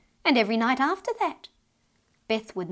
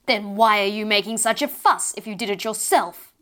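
louder booming fairy mother; 6 dB louder than usual. Acted. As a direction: boom it down at the child. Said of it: "boomed the voice".

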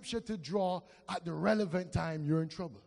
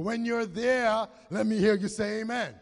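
louder call for amen; 3 semitones higher, 4 dB louder than usual. Real, not acted. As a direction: press them harder for an amen. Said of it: "That sounds like three quarter".

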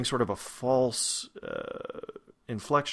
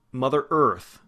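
"Earth" stressed, louder, full r-colored vowel; 2 semitones higher, 5 dB louder, slower than usual. Shown as a demonstration. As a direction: punch "Earth", don't back off it. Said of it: "you can hear that stress".

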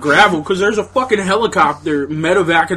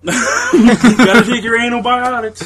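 laughing; 5 semitones higher, slower than usual. Retold or imitated. Repeating doctor line laughing.

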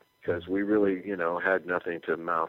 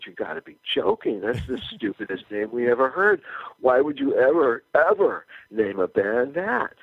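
higher, louder disbelief breaking into a laugh; incredulous laughing protest; 5 semitones higher, 4 dB louder than usual. Retold or imitated. To the club manager about the name, laughing disbelief. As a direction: scoff as if the idea is absurd.

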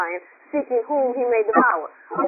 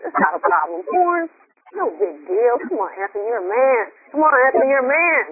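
tempting devil; 2 semitones lower than usual. Retold or imitated. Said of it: "He tries to isolate us and say".

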